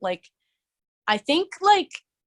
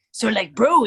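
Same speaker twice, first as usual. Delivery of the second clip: bro voice; 5 dB louder than usual. Shown as a demonstration. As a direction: toss out "bro" like a laid-back dude. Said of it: "thing called bro voice".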